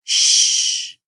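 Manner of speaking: breathy shush; whisper. Acted. Hedgehog hushes Snake, whispered shush. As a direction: hush them with a whisper. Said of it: "Hedgehog whispered".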